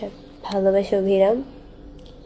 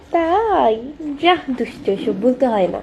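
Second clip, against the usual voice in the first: playful coy; 3 semitones higher than usual. Real, not acted. To a viewer who says she has a crush, playfully coy. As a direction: brush off the compliment with a flirty giggle in the voice.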